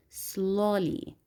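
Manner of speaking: "slowly" with the O stressed, falling away on -ly. Shown as a demonstration. Teacher pointing out the stressed vowel to students, stress on the O of "slowly". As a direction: lean on the long O in "slowly". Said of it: "We have the stress above the vowel O".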